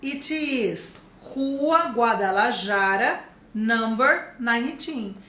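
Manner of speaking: slow, steady repeat of address; slow model repeat. Shown as a demonstration. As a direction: say it again slowly. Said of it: "falei meu endereço em inglês".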